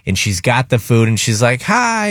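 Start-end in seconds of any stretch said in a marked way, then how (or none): 1.6-2.1 high, cheerful little hi; lilting, sweet hello, pitched up; sweet lady's greeting. Retold or imitated. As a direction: imitate a friendly server's greeting. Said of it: "The sweetest lady comes out".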